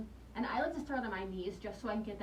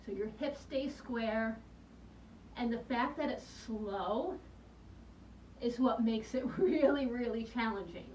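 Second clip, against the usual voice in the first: shaking voice. Real, not acted. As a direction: voice trembling from plank strain. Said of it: "you can hear that my voice is shaking".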